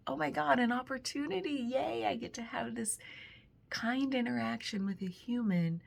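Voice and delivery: excited inner voice. Retold or imitated. Retelling her thrill at the shopping cart moment. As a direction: gush like you just spotted a chance. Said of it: "It was like".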